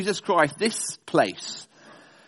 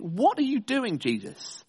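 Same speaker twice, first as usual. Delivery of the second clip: incredulous; 3 semitones higher, 5 dB quieter than usual. Retold or imitated. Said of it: "you think".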